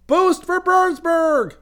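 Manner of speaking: high, slow reverent echo; reverent slogan. A narrator's reading. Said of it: "The other chappie said reverently".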